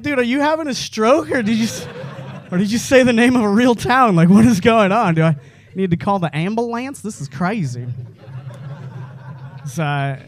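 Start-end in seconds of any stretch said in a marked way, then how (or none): 0.0-7.9 raised, laughing disbelief; incredulous laughing. Retold or imitated. Comic asking the dude if he's having a stroke, laughing. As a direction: laugh through the baffled questions. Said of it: "And then I was like".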